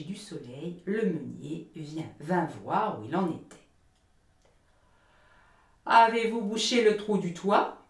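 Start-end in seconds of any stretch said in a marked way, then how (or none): 5.9-7.8 loud, cheerful shout up to the roof; the miller calling up to Hans on the roof, loud and cheerful; cheery call. Acted. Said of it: "cria le meunier d'une voix gaie".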